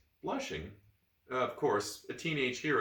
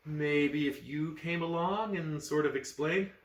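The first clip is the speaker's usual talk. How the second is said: flirty; 4 semitones higher, slower than usual. Acted. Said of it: "She bats her eyes at him".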